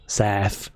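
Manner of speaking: "south," said sarf, f for th; south in a South London sarf. Shown as a demonstration. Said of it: "would say it would be spelled S A R F".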